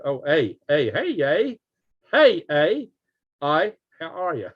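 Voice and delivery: playful mock-Canadian "eh"; Canadian accent. Host greeting an Australian viewer, mock Canadian accent. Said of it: "That's what Canadians say".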